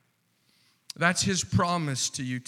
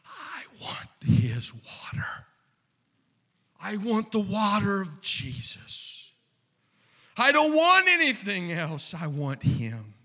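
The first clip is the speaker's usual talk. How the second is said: soul crying out; 3 semitones higher than usual. Acted. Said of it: "your soul screaming out".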